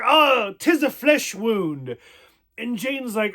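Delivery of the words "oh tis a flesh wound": retold mock-dramatic groan, drawn out; a hammed-up wounded hero, lightly; lightly voiced Kyle. Vlogger quoting Kyle brushing off a flesh wound, lightly hammed up. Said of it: "Kyle's like".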